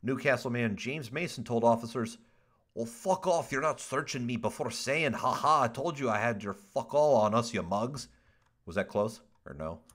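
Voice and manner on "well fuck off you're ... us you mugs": a lightly put-on British accent, rough and mocking. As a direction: read the quote in a half-hearted British accent, as a cheeky drunk. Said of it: "it sounded more British than, than New Zealanders".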